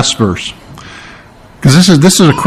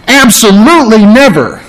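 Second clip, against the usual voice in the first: "absolutely never" pitched up with firm emphasis; emphatic absolutely never; 5 semitones higher than usual. Shown as a demonstration. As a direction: lean hard on "absolutely never". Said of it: "is emphatic".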